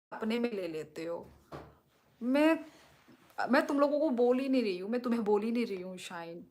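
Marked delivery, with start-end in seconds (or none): 2.2-6.5 fast, raised voice, pleading to be believed; agitated insistence. Real, not acted. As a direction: rush it out to cut off the misunderstanding. Insisting to viewers she isn't upset.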